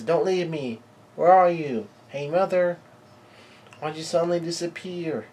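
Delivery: high-pitched plaintive child, acted; lightly acted calling after a lost mother; pleading call. Abandoned Lillian calls for Mother.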